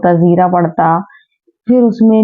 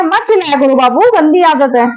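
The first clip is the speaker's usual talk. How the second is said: gentle scolding; 8 semitones higher than usual. Real, not acted. Mother gently scolds toddler Haider for shouting. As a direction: tell the little one off kindly. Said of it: "मुझे इनको टोकना पड़ता है".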